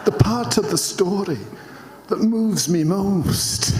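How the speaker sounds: a Scottish attempt that drifts into Frank Spencer; accidental Frank Spencer. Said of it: "I think that was Frank Spencer".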